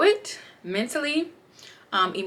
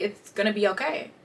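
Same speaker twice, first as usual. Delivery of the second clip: reassuring; 5 dB quieter than usual. Retold or imitated. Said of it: "me and my bestie always say".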